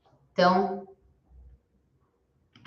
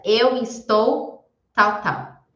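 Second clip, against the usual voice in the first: slow model answer; 3 dB louder, much slower than usual. Shown as a demonstration. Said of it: "e responde completo".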